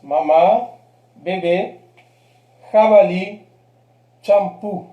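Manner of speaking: "Mamá, bebé, jabalí, champú" with the final syllable strong; last-syllable stress. Shown as a demonstration. Teacher repeating accented agudas, final stress on "Mamá, bebé, jabalí, champú". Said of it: "palabras con la última sílaba fuerte".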